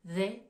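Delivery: "they" with a voiced th; English they. Shown as a demonstration. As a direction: say "they" with the tongue between the teeth, voicing on. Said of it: "premier mot en anglais".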